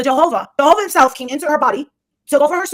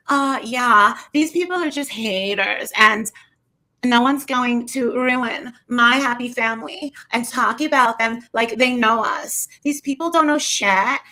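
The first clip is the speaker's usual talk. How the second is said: slow, drawn-out imitation of Dre; mock unconfident; slower than usual. She imitates Dre defending her family, mock unconfident. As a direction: drag the words out, putting on a show. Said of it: "She didn't sound too, uh, confident".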